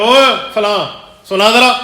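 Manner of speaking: teacher scolding. Retold or imitated. Teacher scolds a struggling pupil in class, mock stern call. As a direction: imitate a teacher barking at a weak student, drawn out then sharper. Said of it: "اسے ڈانٹنے لگتے ہیں".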